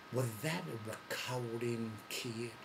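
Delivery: Dusty Rhodes ribbing the new guy, slow and dry; Dusty's slow drawl. Retold or imitated. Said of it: "And he goes".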